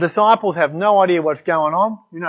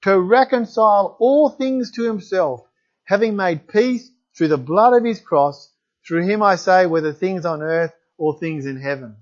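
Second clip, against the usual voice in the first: scripture reading. Acted. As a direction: read it out like holy words to the congregation. Reads Colossians passage aloud.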